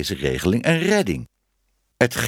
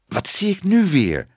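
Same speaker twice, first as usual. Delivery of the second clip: high, indignant outcry; exclaiming; 8 semitones higher, 4 dB louder than usual. A narrator's reading. Man staying strict as he catches her washing, exclaiming. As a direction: cry out in disapproval. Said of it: "riep hij".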